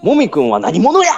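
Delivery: mock Kansai-accented exclamation. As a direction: blurt it in Kansai dialect. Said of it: "関西弁で多分喋ってる".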